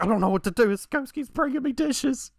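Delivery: high, rising whine imitating panic; hammed-up distress, climbing very high; mock panicked wife. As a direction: imitate someone frantic, pitch climbing to a squeal. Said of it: "She's like".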